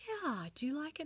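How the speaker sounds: high, lilting fatherly question; encouraging. Retold or imitated. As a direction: gently invite the child's opinion. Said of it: "He encouraged".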